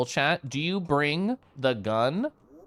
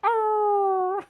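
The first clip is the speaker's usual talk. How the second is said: high coo. Real, not acted. Cooing after fond imitation.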